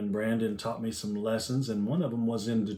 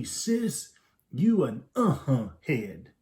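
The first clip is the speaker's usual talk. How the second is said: put-on little boy voice; much slower than usual. Girl quoting brother.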